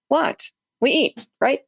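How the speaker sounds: playfully mocking an astonished Italian friend; mock Paolo disbelief. Astronaut teasing crewmate Paolo about skipping lunch, mock surprise. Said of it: "He wouldn't say it like that".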